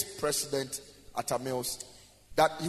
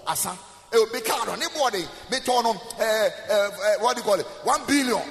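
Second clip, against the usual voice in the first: boastful rich man; 4 semitones higher than usual. Pretend. Preacher voices a boastful car owner.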